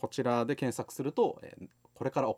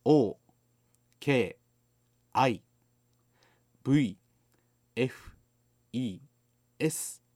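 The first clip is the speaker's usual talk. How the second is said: louder, slow letter-by-letter spelling; 6 dB louder, much slower than usual. Shown as a demonstration. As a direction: spell each letter clearly and loudly. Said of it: "もう一回、ローマ字教えてもらっていいかね".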